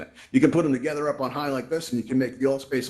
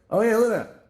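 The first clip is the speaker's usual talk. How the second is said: high, louder burst of delight; thrilled at what he sees; excited; 9 semitones higher, 5 dB louder than usual. Real, not acted. Host cheering the crowd's dance move, excited.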